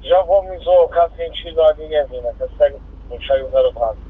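crackly two-way radio transmission; squelchy handheld radio; police radio. Real, not acted. Patrol reports over radio.

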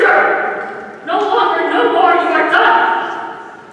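building from firm to furious shout; rising fury, ending in a loud outburst; shaking with anger. Acted. Poem builds to furious climax.

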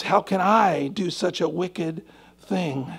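slow hushed musing on the question. Shown as a demonstration. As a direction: let it sink in gently. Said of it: "Oh, guys".

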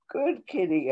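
light hint of baby talk to a cat. Poet cooing at her cat, a hint of baby voice. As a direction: coo it softly like to a pet, just a touch. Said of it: "I say in my baby voice".

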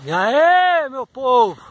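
loud bright hello; excited greeting. Real, not acted. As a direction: greet viewers with energy. (saudação empolgada)

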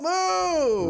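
high, loud barked order; shouted command. Real, not acted. Streamer yelling at his stuck army, high loud shout. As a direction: yell it at the army to get moving.

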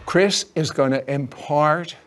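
usual speaking voice

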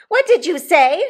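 high, loud outraged question; beginning to scream. A narrator's reading. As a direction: pitch it up towards a scream. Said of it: "beginning to scream".

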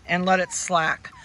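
ordinary talk, nothing marked

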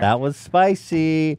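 slow, high teasing drawl; drawn-out tease. Real, not acted. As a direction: savor the word spicy. Joking reaction to slide.

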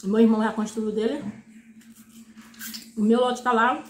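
chicken bone between lips; speaking around food; talking while chewing. Real, not acted. Seen 5: Eats chicken bones throughout; bone held between lips mid-words.

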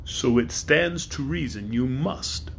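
great dragon passing judgement on Woot. Acted. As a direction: weigh each word like a ponderous beast.

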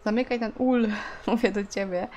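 nagging a character who won't listen; insistent command. Real, not acted. Repeats ignored order to game character.

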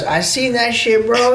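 high, drawn-out buddy impression; Joe Kidd accent. Buddy saw the whole incident, high mimicked accent. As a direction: mimic your friend's accent, high and slow. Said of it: "That's a pretty good Joe Kidd accent, too".

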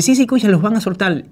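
high, loud eager repeat; excited insisting. Retold or imitated. Uncle insisting to the wife, excited and loud. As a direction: urge her to listen, thrilled.

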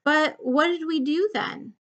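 eager, with high lifts in pitch; happily remembering, a touch excited; delighted. A narrator's reading. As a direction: answer with a pleased smile. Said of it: "broke into a delighted smile".

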